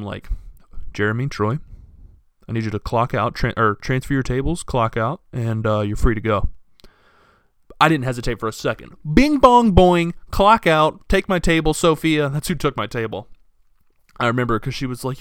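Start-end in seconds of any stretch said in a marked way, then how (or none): 0.9-6.5 solemn manager. Retold or imitated. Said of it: "he gets this very solemn". 9.1-12.3 loud, high sound-effect burst; gleeful rush. Real, not acted. Rushing out gleefully.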